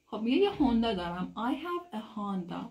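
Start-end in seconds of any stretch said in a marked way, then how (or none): 1.4-2.6 "I have a Honda" sounded out slowly, word by word; pronunciation model. Shown as a demonstration. Teacher showing students how it is pronounced, slow "I have a Honda". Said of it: "تلفظش این شکلیه".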